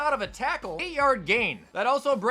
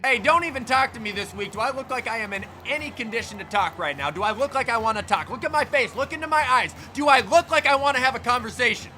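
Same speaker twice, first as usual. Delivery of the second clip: grumpy coach; 2 semitones higher, 3 dB louder than usual. Pretend. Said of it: "sideline interview with Coach Eric Taylor".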